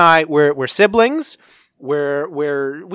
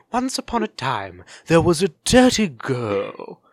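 Disney trailer voice; slower than usual. Retold or imitated. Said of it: "What if that's how the Disney movie opened".

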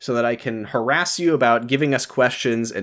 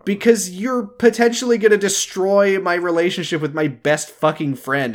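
heated, higher-pitched retelling of an argument; mild exasperation; 6 semitones higher than usual. Retold or imitated. Podcaster retelling a character's argument, exasperated. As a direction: act out an indignant complaint. Acting out a character's angry quote.

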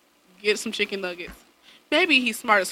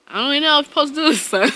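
fast confused mumble; 5 semitones higher, much faster than usual. Retold or imitated. Mocking her confused self.

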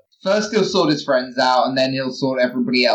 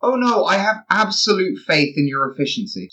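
dry mock reassurance, slightly raised pitch; deadpan; 5 semitones higher than usual. Dawn answering Mox's doubt, completely deadpan. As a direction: deliver the praise straight-faced. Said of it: "I say, completely deadpan".

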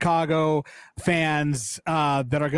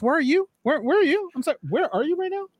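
high gloating taunt; 10 semitones higher, faster than usual. Real, not acted. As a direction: rub it in, teasing high. Taunting rival about standings.

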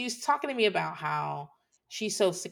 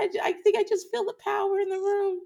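mock awe; 14 semitones higher, 4 dB louder than usual. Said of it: "I was just like".

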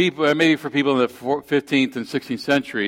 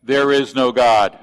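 yell back; 4 dB louder than usual. Retold or imitated. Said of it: "the atheist next door would yell back".

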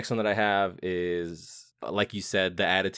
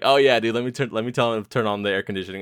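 mocking worker; 4 dB louder, faster than usual. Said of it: "the way that guy is just like".

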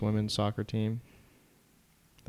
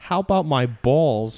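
laughing joke; 5 semitones higher, 8 dB louder, slower than usual. Real, not acted. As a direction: laugh it out, louder and slower. Friend jokes back, laughing.

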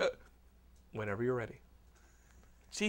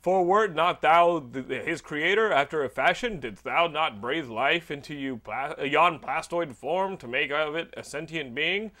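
Thor; slower than usual. Acted. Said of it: "and then Thor goes".

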